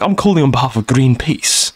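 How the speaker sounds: a hint of mock-posh phone manner; posh caller voice. Charity caller explaining his call, mildly posh imitation. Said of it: "he was posh".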